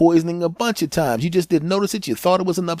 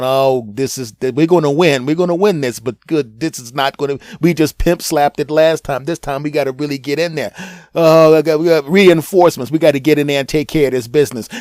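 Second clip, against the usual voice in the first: fired-up rally; 4 dB louder than usual. Acted. Immune system rallying troops.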